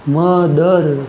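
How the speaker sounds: मदर drawn out in two separate beats; stressed syllables. Shown as a demonstration. Teacher showing a two-syllable example, stressed syllables. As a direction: stretch both syllables of मदर, ma-dar. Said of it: "मतलब जोर किस पर?".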